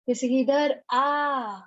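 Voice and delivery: slow call with आ drawn out long; teacher demonstrating a long distant call; calling from afar. Shown as a demonstration. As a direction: stretch the आ as if calling someone far off. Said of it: "दूर से अगर हम किसी को बुलाएंगे".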